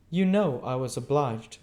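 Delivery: high, loud, fussy lady; Camilla voice. A narrator's reading. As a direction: insist like a fussy aunt.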